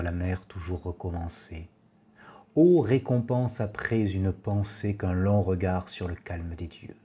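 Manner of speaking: hushed, measured verse reading, sinking at line ends; poetry recitation. Acted. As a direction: recite it evenly, letting the endings fade. Reads Valéry's verses aloud.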